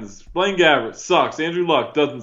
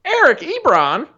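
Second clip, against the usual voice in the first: exaggerated Southern twang; Southern accent; 10 semitones higher than usual. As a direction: call out the name like a hammy Southerner. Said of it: "sound better with that accent".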